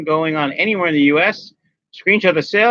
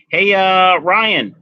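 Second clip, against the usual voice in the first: calling out louder for a viewer's attention; yelling; 4 semitones higher, 5 dB louder, much slower than usual. Real, not acted. Host calling out to a viewer, louder. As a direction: raise your voice to hail someone across a room. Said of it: "I don't know why I'm yelling".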